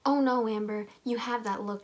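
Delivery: mock alarm at her cousin's look; lightly voiced Jessie. Cousin Jessie warning Amber, a touch alarmed. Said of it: "Jessie says".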